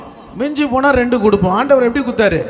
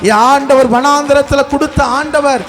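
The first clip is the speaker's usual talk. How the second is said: impassioned preaching; 3 semitones lower than usual. Real, not acted. Preacher promising the congregation God will provide, impassioned preaching. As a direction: proclaim each promise with building force.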